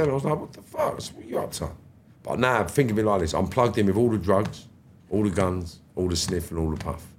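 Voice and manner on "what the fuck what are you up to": whispered, voiceless disbelief; shocked whisper. Retold or imitated. To the man who attacked him years ago, a shocked whisper. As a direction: breathe it out in a hushed hiss. Shocked reply to old enemy.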